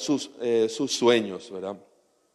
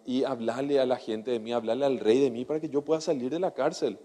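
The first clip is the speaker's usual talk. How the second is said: friendly plea; 2 semitones lower, 6 dB quieter, faster than usual. Retold or imitated. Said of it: "así en buena onda".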